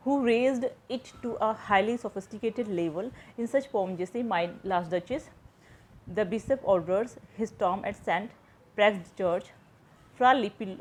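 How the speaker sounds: slow, measured reading of a textbook definition; slow dictation reading. Shown as a demonstration. Teacher to students, reading the definition slowly aloud. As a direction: read each English phrase out slowly, as if for notes. Reads English text slowly.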